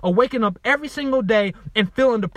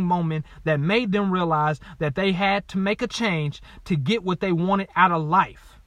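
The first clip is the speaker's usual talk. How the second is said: reading aloud; 2 semitones lower than usual. Real, not acted. Author reading his workbook to listeners, measured read-aloud.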